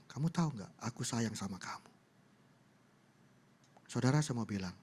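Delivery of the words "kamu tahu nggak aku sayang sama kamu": tender. Retold or imitated. God's tender word to the preacher.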